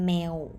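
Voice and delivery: "male" said as mew, final w; Thai w ending. Shown as a demonstration. Teacher pronouncing the second syllable, w ending. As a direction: round off "male" into a w. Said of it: "with vowel".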